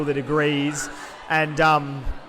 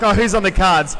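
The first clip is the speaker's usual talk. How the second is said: loud, eager fight-night punter; mock punter; 4 dB louder than usual. Punter at Unibar asking who's fighting, called out loud. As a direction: call out like a punter scanning the fight card.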